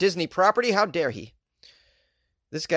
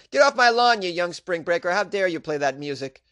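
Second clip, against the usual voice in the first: put-on cranky old man; 5 semitones higher than usual. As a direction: shout at the spring breakers like an angry grandpa. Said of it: "I sound like an old man right now".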